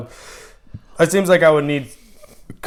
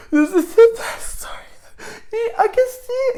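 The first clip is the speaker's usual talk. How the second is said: mock teary moviegoer. Mock moved moviegoer quote.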